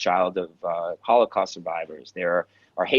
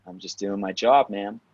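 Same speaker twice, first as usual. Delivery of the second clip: a touch of flirt, lifting on "job"; flirty comeback. Retold or imitated. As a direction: play back at her sauciness, understated. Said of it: "it got really flirty".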